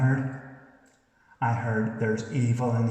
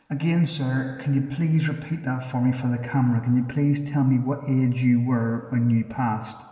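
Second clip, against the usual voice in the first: calling out to a spirit; 4 dB louder than usual. Real, not acted. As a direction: project the question out to an unseen spirit. Repeating question to a spirit.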